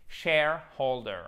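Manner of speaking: "Shareholder" slowly, main stress on Share, lighter on hol; accent tonique. Shown as a demonstration. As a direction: punch Share, then a secondary stress on holder in "Shareholder". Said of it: "un accent tonique secondaire sur la seconde syllabe". (« Shareholder » lent, accent fort sur Share, secondaire sur hol)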